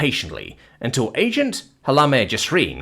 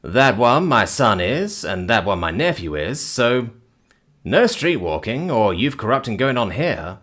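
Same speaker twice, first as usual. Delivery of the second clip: lightly voiced unruffled man; a touch of dry patience; patient man explaining. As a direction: explain it mildly to an accuser.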